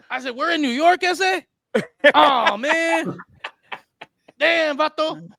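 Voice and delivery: laid-back Chicano captain spinning his tale; easygoing homeboy captain telling his story; cholo captain. Pretend. Captain explains the bridge crash, laid-back cholo voice.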